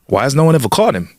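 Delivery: lightly put-on deep South accent; joke-telling deep South voice. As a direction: ask it with a hint of deep South. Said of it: "deep South accent".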